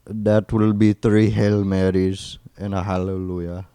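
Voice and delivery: mock Indian call-centre agent; Indian accent. Call-centre worker handing out penance, mock Indian accent. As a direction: recite it in a put-on Indian accent. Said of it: "just a call center Indian".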